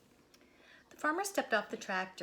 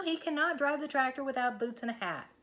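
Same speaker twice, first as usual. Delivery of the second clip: higher, louder; insistent Moo; 5 semitones higher, 4 dB louder than usual. Acted. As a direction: press the point home. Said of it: "said Moo".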